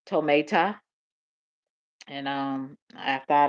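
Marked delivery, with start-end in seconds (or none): 0.1-0.8 Tometa said toh-MAY-tah with a rising end; trying a pronunciation. Shown as a demonstration. Streamer testing a word she looked up, Tometa as toh-MAY-tah. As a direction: try Tometa with an AY in the middle. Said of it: "go back and look at the pronunciation".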